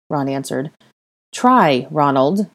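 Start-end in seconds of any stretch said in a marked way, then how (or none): 1.3-2.5 insistent. Acted. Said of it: "she insisted".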